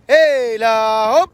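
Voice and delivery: long slow heave-ho cheer; drawn-out jump call. Real, not acted. Guide to jumping kids, drawn-out slow jump call. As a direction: stretch hiii-la hoop out slowly as the jumper leaps.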